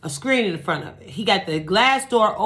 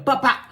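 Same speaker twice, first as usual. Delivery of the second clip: two high, popped bops; imitated gunshots; 5 semitones higher, 3 dB louder than usual. Storyteller voices shots coming through the door, imitated gunshots. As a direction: pop out a pair of vocal shots.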